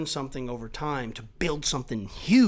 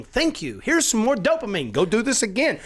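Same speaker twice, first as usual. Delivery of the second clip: body's voice; 7 semitones higher, 5 dB louder than usual. Retold or imitated. Voicing his body thanking him.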